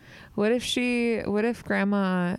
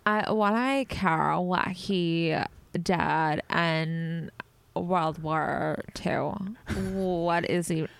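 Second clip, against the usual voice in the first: bored grandkid voice; much slower than usual. Pretend. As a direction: drag it out like you couldn't care less.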